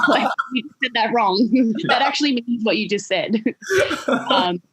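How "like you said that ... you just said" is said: laughing. Real, not acted. Laughing at friend's mistake.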